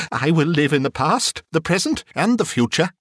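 a touch of breathless resolve; earnest Scrooge. Acted. Scrooge vows as he scrambles out of bed, eager.

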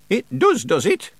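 high-voiced suspicious witch. A narrator's reading. Witch doubts the Feegle's flattery, suspicious. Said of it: "said Miss Treason suspiciously".

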